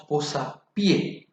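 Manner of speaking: "posapié" said slowly, stress on pié; slow stress demo. Shown as a demonstration. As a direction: draw out "posapié", landing on pié. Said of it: "la fuerza de la voz recae en la última".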